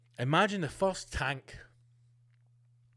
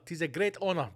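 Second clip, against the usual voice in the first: mock Seagal quote. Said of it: "he then called the Russian passport a great honour".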